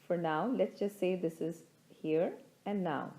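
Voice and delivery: calm, measured guidance with long pauses; unhurried meditation teacher, pausing between phrases; guided meditation. Acted. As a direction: lead listeners gently inward, leaving space after each thought.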